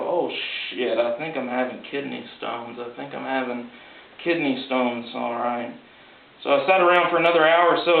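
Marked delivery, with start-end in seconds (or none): 0.0-5.7 soft worried inner voice; muttering to yourself in pain. Retold or imitated. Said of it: "I thought to myself".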